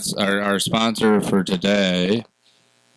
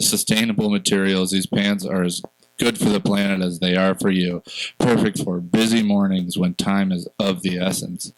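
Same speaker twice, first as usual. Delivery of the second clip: smooth, scripted ad read; commercial voice. Acted. Host reading podcast sponsor's ad for self-buttoning pants, commercial voice. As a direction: pitch the product like a commercial announcer. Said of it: "put on your commercial voice".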